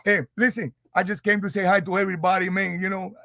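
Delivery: put-on Cuban accent. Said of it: "What happened to the Cuban accent?".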